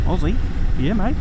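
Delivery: put-on a jokey Australian accent on Aussie and mate; mock Aussie accent. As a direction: play up the Aussie twang for a laugh. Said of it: "with a bit of an Aussie accent".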